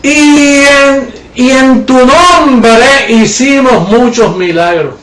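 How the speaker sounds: slow, drawn-out mock quote of the false believers. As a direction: drag it out as if mocking their boast.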